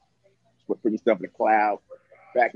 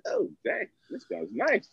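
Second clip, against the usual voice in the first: excited; 5 semitones higher than usual. Retold or imitated. Retells his delighted reaction.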